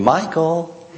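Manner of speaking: lightly imitated sweet wife; a hint of wifely sweetness; sweet little voice. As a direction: coax gently, as the wife would. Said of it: "That sweet little voice came wafting up".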